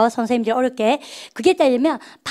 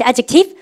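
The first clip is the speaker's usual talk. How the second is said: adjective modelled with first-syllable stress; 3 dB louder, much slower than usual. Shown as a demonstration. Teacher prompts class to repeat, adjective clearly stressed. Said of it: "발음해볼까?".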